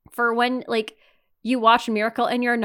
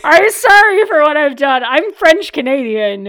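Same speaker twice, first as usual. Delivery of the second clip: put-on Boston accent; 5 semitones higher, 11 dB louder than usual. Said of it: "the worst Boston accent".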